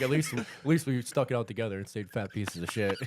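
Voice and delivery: laughing mock quote. Mocking their future selves.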